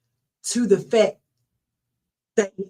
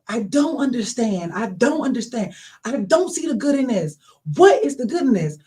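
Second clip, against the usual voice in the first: mildly worked-up, stressed disbelief; retold distraught questioning; 2 semitones higher than usual. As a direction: reenact bewildered pleading, building on each repeat. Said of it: "all crazy".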